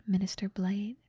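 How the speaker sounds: ordinary delivery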